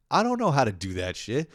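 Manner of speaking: whiny protest. Retold or imitated. Comic telling girlfriend he can't fix it, protesting. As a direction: act out helpless objecting.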